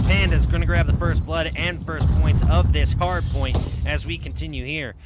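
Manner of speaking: announcer opening into live match commentary; driving sportscaster delivery; esports play-by-play. Real, not acted. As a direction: call the action live with building energy.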